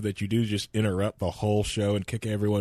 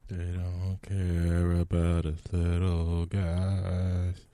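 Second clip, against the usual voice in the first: slow mumbled drawl; mumbly; 3 semitones lower, much slower than usual. Acted. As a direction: mumble it slowly. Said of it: "the most mumbly shit I've ever heard".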